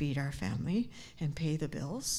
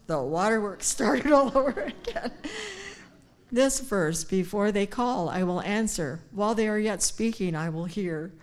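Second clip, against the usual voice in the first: tearful, choked up; 3 semitones higher, 6 dB louder than usual. Real, not acted. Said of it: "I just might in this next section".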